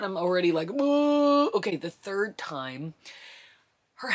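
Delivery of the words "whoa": loud, high gasp of shock; startled whoa. Retold or imitated. Mother feeling the baby coming, crying out in shock. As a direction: let the surprise burst out.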